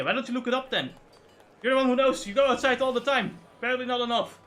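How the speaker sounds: mock-indignant sibling quarrel; retold heated retort. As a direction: snap back in the retelling. Retold argument with sister.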